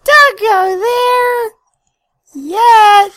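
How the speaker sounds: high, slow, loud warning; Shadow voice. Pretend. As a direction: bellow it like an edgy anime hero. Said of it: "do you want me to Shadow's voice".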